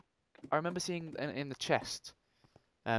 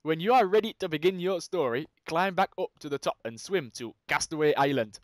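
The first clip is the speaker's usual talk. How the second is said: put-on terrible Geordie accent. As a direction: attempt Geordie and get it wrong. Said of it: "That's a terrible Geordie accent".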